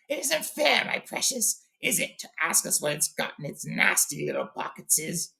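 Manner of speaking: high, whiny creature hiss; Gollum. A narrator's reading. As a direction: complain in a high voice breaking into hissed whisper. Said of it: "he hissed".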